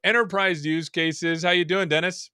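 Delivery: brisk, polished welcome to the show; host welcoming viewers and guest; show host intro. Acted. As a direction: open the episode like a host on air, fast. Host opens the show formally.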